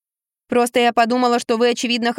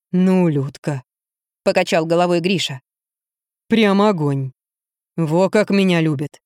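heavy man's voice; 3 semitones lower than usual. A narrator's reading. Гриша жалуется детективу на жену, низко и медленно.

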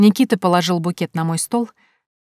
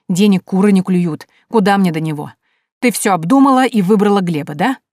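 jealous rant. Acted. Nikita's jealous tirade.

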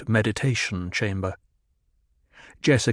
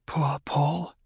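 soft breathy whisper; 5 semitones higher, 5 dB quieter than usual. A narrator's reading. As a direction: say it under your breath with pity. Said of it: "she whispered".

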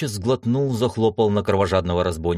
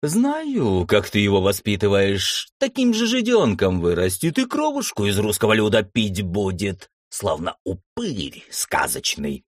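snarling. Acted. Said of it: "оскалился Валет".

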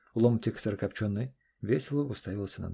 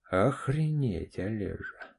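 stunned; slower than usual. Acted. Friend stunned by confession.

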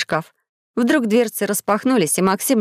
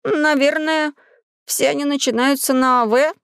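hesitant guess; 6 semitones higher than usual. Acted. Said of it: "нерешительно произнёс".

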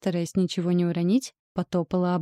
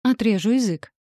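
growled threat; 4 semitones higher, 5 dB louder than usual. A narrator's reading. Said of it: "Рыкнула".

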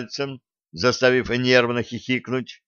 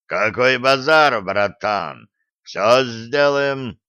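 eager convict; 4 dB louder, slower than usual. Acted.

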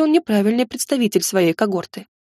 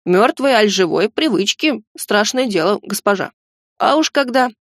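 chattering goblin. Acted. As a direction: babble on like a nervous servant. Goblin keeps rambling.

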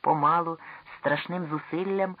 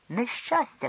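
much higher alarmed outcry; cry of alarm; 8 semitones higher, slower than usual. Acted. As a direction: cry out at the disaster. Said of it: "крикнув я".

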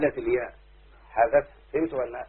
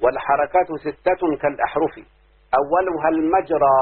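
recited verse. Shown as a demonstration. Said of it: "أما الناظم يقول ايه".

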